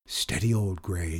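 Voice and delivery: low, soft, steadying murmur; calm it down like a horse. A narrator's reading. Boy soothing his chair, low voice. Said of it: "he said in a low voice".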